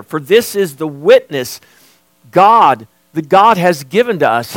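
emphatic sermon delivery with measured pauses; preaching. Real, not acted. Preacher telling church the Spirit bears witness, emphatic preaching. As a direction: preach it with firm stresses on key words. Preacher presses God's testimony.

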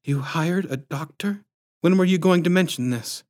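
taken aback. A narrator's reading. Wife confronting husband about the doctor, taken aback. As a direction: question it in rising, puzzled pitch.

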